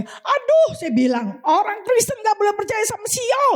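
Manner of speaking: retold high-pitched exasperated protest; dismayed rebuke. Preacher retells rebuking a believer in zodiac signs, dismayed.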